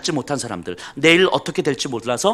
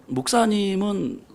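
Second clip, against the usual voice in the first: laughing quote; 2 semitones higher, 5 dB quieter than usual. Retold or imitated. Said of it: "우리 권사님들도 요즘 그러세요".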